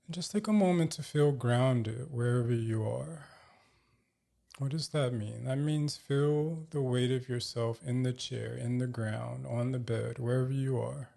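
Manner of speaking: calm, measured meditation guide with long pauses; guided meditation. Real, not acted. Host guiding listeners to feel grounded, calm meditation voice.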